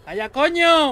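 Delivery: loud, sharp angry snap. Real, not acted. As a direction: shut them up, fast and loud. Snapping at teammate mid-panic.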